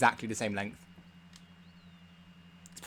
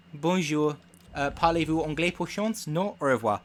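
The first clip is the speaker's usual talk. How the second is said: mock French phrases, said a little higher; schoolbook French phrases; 4 semitones higher than usual. Shown as a demonstration. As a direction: rattle off the only French you know. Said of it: "You need to be able to go".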